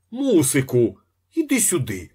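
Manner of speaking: frightened husband yelling for his wife; frightened shout. A narrator's reading. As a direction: call your wife in a panic. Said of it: "закричав переляканий інженер".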